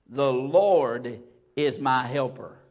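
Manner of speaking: "Lord" held long and loud, falling; stressed Lord. Acted. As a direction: lean hard on "Lord". Preaching quote with stress.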